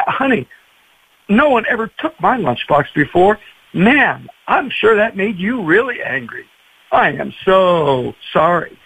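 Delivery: put-on mild, heartfelt commiseration with a child; understated sympathy, slowing at the end; acted empathy. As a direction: share a child's hurt, drawing out the apology. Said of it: "You're grieving with those who grieve".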